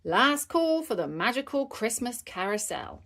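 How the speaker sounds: carrying last-call announcement; announcing. Acted. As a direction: announce it to the crowd in a lifted voice. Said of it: "announced Miss Rabbit".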